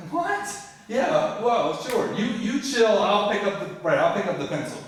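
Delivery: high, jittery placating; high-pitched nervous backpedal; nervous compliance. Retold or imitated. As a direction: scramble to agree with the bully. Scared compliance with thug.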